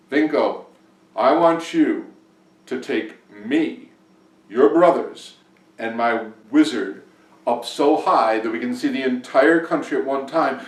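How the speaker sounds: loud, emphatic royal order; commanding king. A narrator's reading. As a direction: give the order in portions, with pauses. King issues impossible command.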